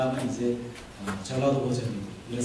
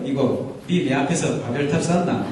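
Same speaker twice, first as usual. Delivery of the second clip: joking Korean regional dialect question; Bible dialect joke. Shown as a demonstration. Pastor puts a defiance line into Bible dialect, joking regional accent. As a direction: put on a country dialect challenge. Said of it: "성경적 사투리로".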